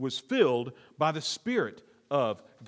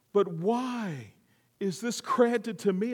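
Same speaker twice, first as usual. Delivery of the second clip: honored wonder; 3 semitones higher, slower than usual. Retold or imitated. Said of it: "feels so honored".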